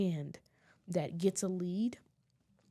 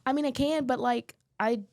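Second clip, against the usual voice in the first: loud retold self-defense; protesting dancer; 3 semitones higher, 6 dB louder than usual. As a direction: imitate a performer pushing back on fans. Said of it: "And he's like".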